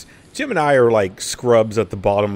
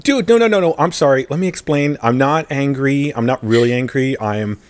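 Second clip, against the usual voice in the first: hasty apology; 3 dB louder than usual. Retold or imitated. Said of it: "I'm like".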